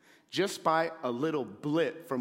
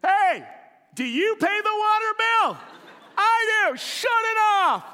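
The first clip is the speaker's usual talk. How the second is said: exasperated yell; 8 dB louder than usual. Retold or imitated. Shouting at wife again.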